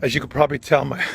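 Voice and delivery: talking while chewing gum. Real, not acted. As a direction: chew gum as you speak. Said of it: "I'm, um, chewing gum".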